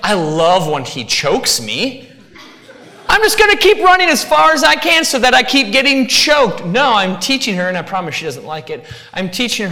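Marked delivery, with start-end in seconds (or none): 0.0-6.6 mock happy dog voice, rising high and loud; sarcastic dog voice. Preacher voicing his dog sarcastically, mock-happy and high. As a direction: ham up the dog who loves being choked. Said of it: "'Cause she's like".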